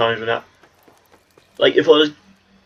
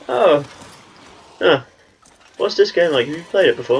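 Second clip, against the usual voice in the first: put-on girl at the counter; 6 semitones higher than usual. Shop girl asking about the game, higher and bright. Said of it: "It's like".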